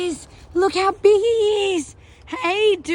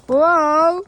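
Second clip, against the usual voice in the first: loud astonished whoa; amazed whoa; 5 dB louder than usual. Real, not acted. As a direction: gasp out a big whoa. Sees something amazing.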